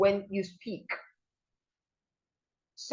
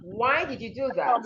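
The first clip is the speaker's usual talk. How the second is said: "Why" lifted, then stepping down to "that"; falling intonation; 2 semitones higher than usual. Shown as a demonstration. Teacher modelling a WH question, falling intonation. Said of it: "Your voice falls at the end".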